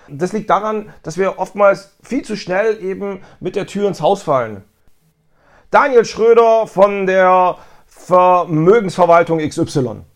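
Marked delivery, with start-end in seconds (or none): 5.7-10.0 rushed name. Shown as a demonstration. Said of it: "das ist einfach sehr, sehr unglücklich".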